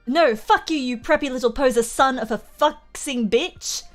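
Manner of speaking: put-on disguised voice, full of contempt; hammed-up disgust. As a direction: sneer an insult in a disguised voice. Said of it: "said under his breath in a disguised way, a disgusted way".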